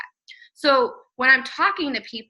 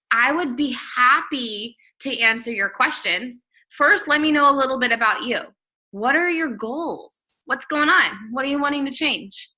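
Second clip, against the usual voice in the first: friendly reply. Shown as a demonstration. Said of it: "let's say they finally ask".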